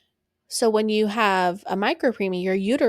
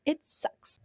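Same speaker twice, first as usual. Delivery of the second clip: whispered aside; 8 semitones higher, 8 dB quieter than usual. Real, not acted. Aside about incompetent cervix.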